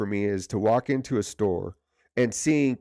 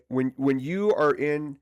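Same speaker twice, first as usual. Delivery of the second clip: polite request. Retold or imitated. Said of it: "very politely say".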